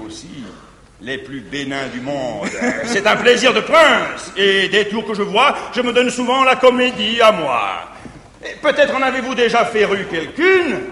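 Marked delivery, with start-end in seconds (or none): 2.7-7.6 gloating laugh. Acted. Arnolphe gloats about cuckolds.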